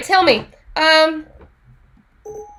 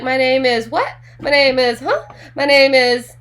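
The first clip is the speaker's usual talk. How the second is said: mock clueless intro; 4 dB louder than usual. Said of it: "walk up to the person and be like".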